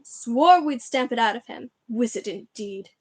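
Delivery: slow, loud and disgusted; scornful anger. Acted. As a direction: spit out the contempt. Uncle scornful about magic.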